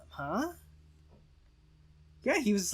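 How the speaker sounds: ordinary delivery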